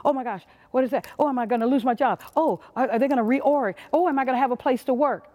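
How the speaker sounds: fast, jittery imitation of a nervous worker; mock fearful worrying. Speaker mimics a fearful employee dreading job loss, fast mock panic. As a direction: rattle off the worries like a mildly panicked employee. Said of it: "Fear will cause us to be fearful of everything".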